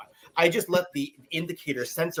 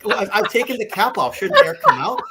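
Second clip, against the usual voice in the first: high, laughing, a little louder; laughing while retelling; 8 semitones higher, 4 dB louder than usual. Retold or imitated. Friend on the phone, laughing at himself. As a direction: laugh through the clueless question.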